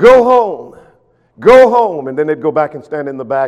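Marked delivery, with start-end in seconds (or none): 0.0-2.1 very loud, very slow, high-pitched heckling holler. Telling how men heckled a preacher, the speaker imitates men hollering. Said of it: "hollering at him".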